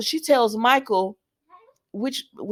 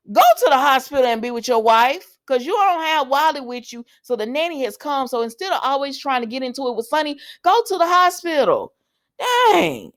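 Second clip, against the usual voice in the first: raised, high-pitched exasperation; real frustration; 5 semitones higher than usual. Real, not acted. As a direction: scold him from the sidelines, pitched up. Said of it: "It's frustrating at this point".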